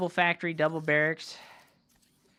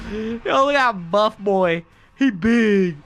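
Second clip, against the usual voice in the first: loud hyped caster yelling; excited; 6 semitones higher, 7 dB louder than usual. Real, not acted. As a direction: shout it, hyped at the buff unit. Hyped by huge unit.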